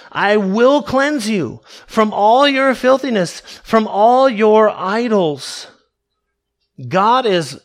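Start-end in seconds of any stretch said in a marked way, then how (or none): 0.1-5.7 slow, weighty stress on "all"; measured, insistent scripture quote; emphatic promise. Acted. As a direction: declare it firmly, leaning on each "all". Preacher hammers home the verse's promise.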